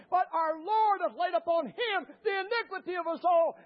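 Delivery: driving scripture recitation from the pulpit; fervent preaching. Real, not acted. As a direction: build the verse toward a rousing climax. Preaches scripture at full force.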